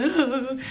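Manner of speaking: retold crying moan; mock sob. Passenger being consoled, mock sobbing. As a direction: let out a fake sob. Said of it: "And I'm crying".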